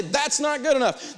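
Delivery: "That's not good enough" high, slow and firm; firm demonstration. Shown as a demonstration. Buyer rejecting another price, firm slow "That's not good enough". Coach repeats the stock reply.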